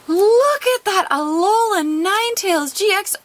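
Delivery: excited reveal; thrilled showing off. Real, not acted. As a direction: show off the pull. Rare card revealed.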